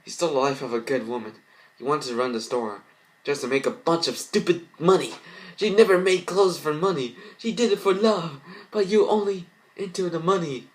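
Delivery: rising from firm to high, loud fury; rage building. Acted. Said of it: "faint with her rage".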